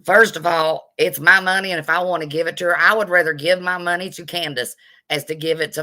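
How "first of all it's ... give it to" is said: indignant. Real, not acted. Rebuking critics of her giving.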